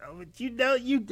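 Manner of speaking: high, loud mocking voice; mocking a believer. Imitating people who trust the programme, high mock whine. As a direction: squeak it out like a flustered mask wearer. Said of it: "It's like".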